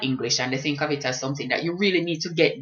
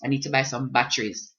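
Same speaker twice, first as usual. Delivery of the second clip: put-on "batteries" said in her own Jamaican accent, at her usual level; the first try at the shop, in her own accent. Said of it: "spend three minutes asking this girl for batteries".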